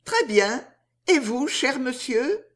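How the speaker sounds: courteous, lifted questioning tune; Riquette. Acted. Riquette greeting Riquet formally in the street, politely. Woman's polite small talk in story.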